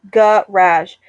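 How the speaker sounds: "Garage" in two separated beats, guh-RAZH; GARAGE split up. Shown as a demonstration. Checking own pronunciation, syllable-by-syllable GARAGE. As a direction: sound out "Garage" with a short A. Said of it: "I am saying it like that".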